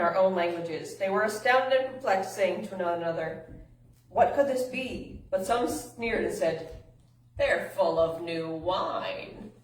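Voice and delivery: lively, emphatic Bible reading; scripture reading. A narrator's reading. Youth preacher reads Scripture to listeners, animated reading. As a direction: read the passage aloud with animated emphasis.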